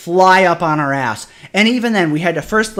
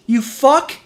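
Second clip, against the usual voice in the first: angry curse; 8 semitones higher than usual. Real, not acted. Angry insult after rant.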